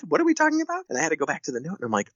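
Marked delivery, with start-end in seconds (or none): 0.0-0.8 very high, baffled question; doctor imitating her own shocked reply to the mom; retold surprise. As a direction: sound completely caught off guard. Caught off guard by the call.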